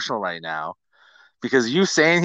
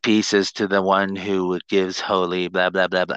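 mock Jesus voice; 5 semitones lower than usual. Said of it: "I start talking like him".

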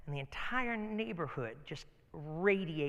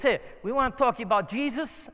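louder, higher, accosting a stranger; bold street evangelist; 5 semitones higher, 6 dB louder than usual. Retold or imitated. Tough friend walks up to a stranger, bold. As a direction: act out a forward, punchy pitch.

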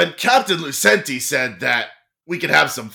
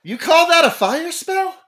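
high, mocking jeer; taunting; 12 semitones higher than usual. Enemy captain mocks the pirate's spell, high and jeering. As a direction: sneer at the weak spell.

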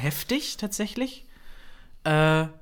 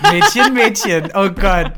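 laughing; 7 semitones higher, 13 dB louder, slower than usual. Real, not acted. Cracking up at the joke.

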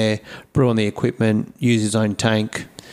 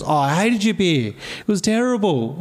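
much higher mock disdain; mock owner; 9 semitones higher than usual. Brewer imagining owner hating the beer, high. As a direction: squeak out the verdict. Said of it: "And she goes".

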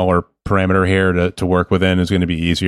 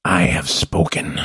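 slow, solemn line read like the alien elder; a slow, grave hint of the Mandalorian elder; slow Mandalorian character voice; 2 semitones lower, slower than usual. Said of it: "one of the best characters from The Mandalorian".

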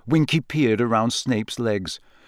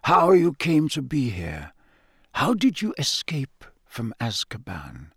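soft. Acted. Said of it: "said Dumbledore softly".

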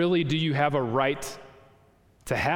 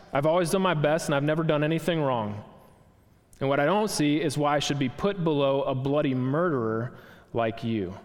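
lightly voiced blustering ghost; indignant ghost; 2 semitones higher than usual. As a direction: insist on your rights, a bit raised. Ghost complains.

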